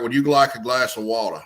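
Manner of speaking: a hint of a genteel Southern grandmother's accent; mild Southern belle accent, elegant and unhurried; aristocratic Southern accent. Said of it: "that elegant, aristocratic Southern accent".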